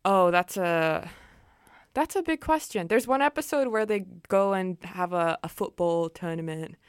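put-on light British English accent. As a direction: answer like a chatty Brit. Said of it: "That was a really good British accent".

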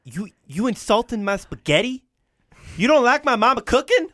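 mad De Niro. Acted. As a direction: defend mama's cooking in hammed-up anger. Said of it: "it was just mad".

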